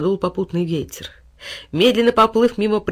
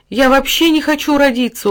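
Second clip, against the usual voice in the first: put-on higher, louder child's plea; pleading; 7 semitones higher, 5 dB louder than usual. A narrator's reading. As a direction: beg not to be born. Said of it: "умоляюще посмотрел". (умоляюще, выше и громче)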